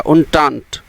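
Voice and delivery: entente said as "oon-taant" with a falling close; careful pronunciation. Shown as a demonstration. Teacher urges students to say it aloud, model pronunciation. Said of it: "बोल के देखोगे तो समझ में आएगा".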